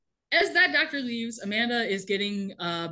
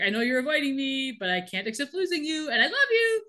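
laughing through quote; 2 semitones higher than usual. Retold or imitated. Michael pleading on Amanda's machine.

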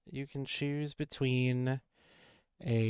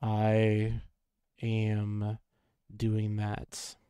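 low, drained and weary; tired voice; 4 semitones lower, much slower than usual. Real, not acted. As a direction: talk like you're worn out. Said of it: "Why do you sound so tired tonight".

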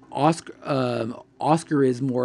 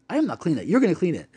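retold indignant refusal, pitched up; mad; 4 semitones higher, much faster than usual. Roommate refusing to clean the thrown pasta, mock mad. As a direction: act out a mildly mad, emphatic refusal. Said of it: "Felix looks at Matt and goes".

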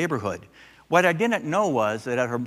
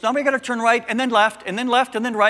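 put-on much higher, a little girl reciting the route; toddler giving directions; 10 semitones higher, 4 dB louder than usual. Granddaughter directing grandpa through the neighborhood, high-pitched. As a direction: chirp the turns like a know-it-all child. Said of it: "then she goes".

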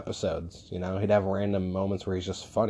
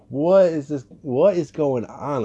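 mock startled question, higher and louder; retold surprise; 6 semitones higher, 5 dB louder than usual. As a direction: imitate a stunned friend asking what's happening. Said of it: "he was like".

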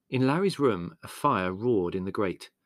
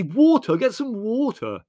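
high, loud, desperate order; yelling; 14 semitones higher, 9 dB louder, slower than usual. A narrator's reading. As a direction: yell for water to fight the fire. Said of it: "yelled Leslie".

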